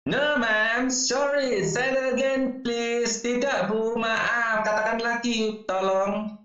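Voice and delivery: student voice. Acted. Student voice in dialogue.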